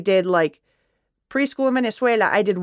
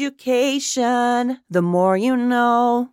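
mock announcer; 3 semitones higher, slower than usual. Mock PSA slogan intro.

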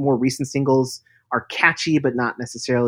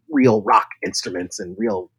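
rock singer talking voice; 5 dB louder than usual. Acted. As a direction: talk like a rock frontman. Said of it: "That's why you're using your rock voice".

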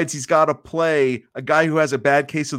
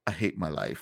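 much lower and softer, utterly glum; hating life; 12 semitones lower, 10 dB quieter than usual. Retold or imitated. Hulk glancing sideways at the camera, glum and low. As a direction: say it like the day just got worse. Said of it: "this look of".

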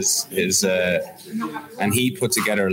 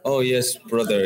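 put-on German accent; 4 semitones higher than usual. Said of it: "in his German accent there".

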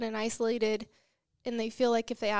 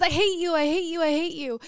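loud, higher shout out into the valley; acted child's yell, louder and higher; 6 semitones higher, 6 dB louder than usual. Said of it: "he walks outside, and he says".

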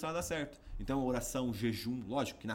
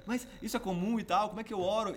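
excited rush of questions, higher and louder; eager; 8 semitones higher, 6 dB louder than usual. Retold or imitated. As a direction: fire questions at the pastor eagerly. Imita a si mesmo animado. (animado, cheio de perguntas ao pastor)

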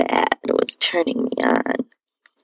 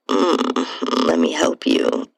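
a lower, murmured man's offer; a hint of a hunky guy, low and inviting; 12 semitones lower, slower than usual. A narrator's reading. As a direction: voice the man, pitched lower. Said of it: "I heard him say".

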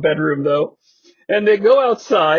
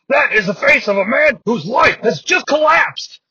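dramatic announcer; 4 semitones higher than usual. Retold or imitated. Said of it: "Scott Hudson says".

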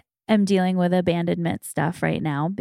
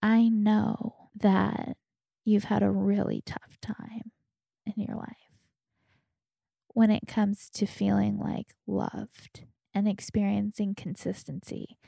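tender reassurance; 6 dB quieter than usual. Retold or imitated. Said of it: "And I said".

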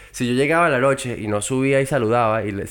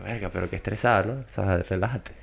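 retorted reply; 4 semitones lower, 6 dB quieter than usual. Retold or imitated. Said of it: "Y yo".

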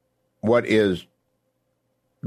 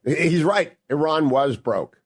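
emphatic agreement; 7 semitones higher than usual. Real, not acted. Host reacts to clip.

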